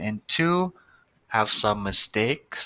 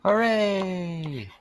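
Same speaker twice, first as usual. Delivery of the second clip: higher, bright little hooray; mock cheer; 9 semitones higher than usual. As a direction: cheer the ending for the kids. Cheering at the story's end.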